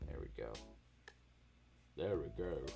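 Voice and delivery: voice turning really deep. Saying a short phrase to the chat, voice got really deep. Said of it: "My voice got really deep there".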